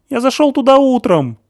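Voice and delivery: high, loud hysterical accusations; panicked screaming; hysterical shouting. A narrator's reading. Stasik louder on demand.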